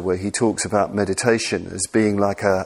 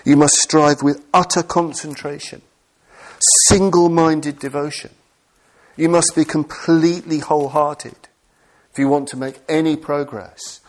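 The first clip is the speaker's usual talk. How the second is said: quoting the texts; 5 semitones higher than usual. Retold or imitated. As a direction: intone it like an old scripture. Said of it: "throughout the Buddhist tradition".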